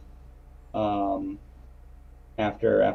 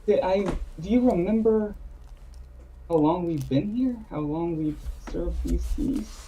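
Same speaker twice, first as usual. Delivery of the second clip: put-on old man calling out; 5 semitones higher than usual. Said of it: "will call out to him".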